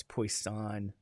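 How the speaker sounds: Poisson said the French way, pwah-SON, slow and quiet; correcting the student, Poisson the French way. Shown as a demonstration. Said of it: "it's pronounced Poisson".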